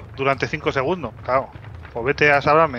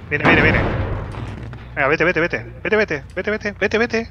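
urgent shouting; 3 semitones higher than usual. Real, not acted. Urging teammate to flee.

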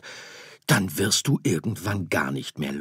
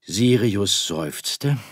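ordinary delivery, nothing marked

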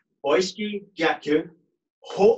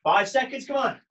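coach shouting encouragement; 6 semitones higher than usual. Real, not acted. Coach calling final seconds.

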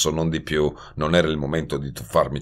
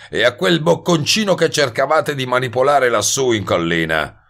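a touch of higher-pitched sparkle; bright tone; 8 semitones higher, 4 dB louder than usual. A narrator's reading. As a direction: lightly needle him in a lively tone. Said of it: "esclamò Globe in tono brillante". (tono brillante e punzecchiante)

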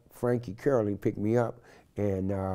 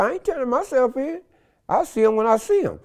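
retold defiance; 5 dB louder than usual. Defiant reply to the feds.

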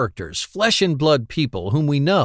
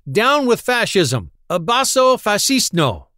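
defiant cry; 6 semitones higher than usual. Acted. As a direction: fling the slogan at them. Quillery defies the officers.

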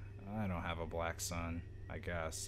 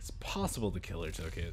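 fast whispered mock echo; mock detective; 3 semitones lower, faster than usual. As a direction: parrot the detective, hushed. Mocking game detective line.

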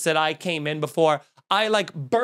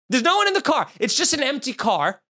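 suddenly much higher, incredulous; exasperated disbelief; 6 semitones higher than usual. Retold or imitated. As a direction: repeat it in high-pitched disbelief. Repeats the reveal in disbelief.

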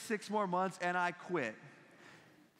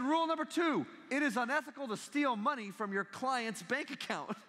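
pompous professor; 8 semitones higher than usual. Retold or imitated. Professor reads rules aloud.

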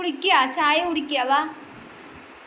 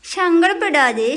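higher, louder, slow "സങ്കടപ്പെടാതെ"; louder soothing plea; 7 semitones higher, 4 dB louder, slower than usual. Acted. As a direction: call out "സങ്കടപ്പെടാതെ" high and slow to reach her. Soothing crying baby, repeated.

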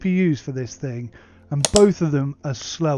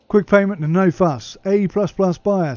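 loud, higher put-on reseller voice; reseller testimonial; 6 semitones higher, 6 dB louder than usual. Media reseller giving buyer feedback, loud put-on voice. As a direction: punch out a buyer review, louder.

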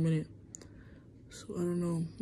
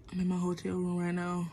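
whisper; 7 dB quieter than usual. Real, not acted. Unvoiced, hushed in hotel room.

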